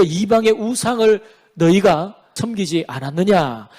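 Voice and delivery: slow, deliberate accusing questions; God's stern rebuke. Acted. Preacher quotes God on the broken marriage covenant, stern and deliberate. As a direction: weigh out each phrase of the charge. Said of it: "하나님께서 이렇게 말씀하시니까".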